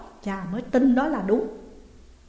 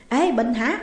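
calling out on the phone; 3 semitones higher, 3 dB louder than usual. Acted. Dự phones his friend Bình.

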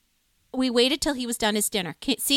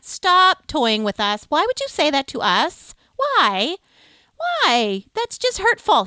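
slow dramatic mock pleading that climbs higher on the last line; mock hurt pleading; 3 semitones higher, 4 dB louder, slower than usual. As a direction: ham up being wounded by a cruel joke. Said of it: "I'm like".

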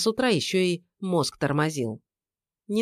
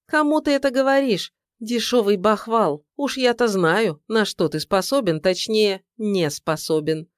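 mocking scorn; 4 semitones higher than usual. Ex-wife mocking his boasting.

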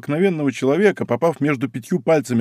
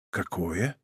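lowered voice; 5 semitones lower, 12 dB quieter than usual. A narrator's reading. D'Artagnan answering Porthos's confession, hushed low voice. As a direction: softly, voice dropped low. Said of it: "тоже понизив голос".

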